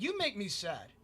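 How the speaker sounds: a quiet, let-down imitation of a stranger; a customer telling a store worker he is disappointed; legitimately disappointed. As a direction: say it like he's genuinely let down by you. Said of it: "that's exactly how he said it".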